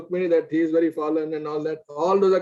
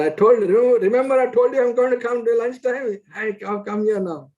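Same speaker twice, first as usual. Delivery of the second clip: higher, louder playful taunt; teasing boy; 7 semitones higher, 4 dB louder than usual. Retold or imitated. Young Nimai bursts in at lunchtime, teasing Murari. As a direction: tease like a mischievous child.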